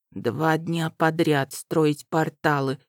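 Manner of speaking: slow sleepy mumble; mumbling. Acted. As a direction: mumble it, half awake. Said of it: "мямлил он".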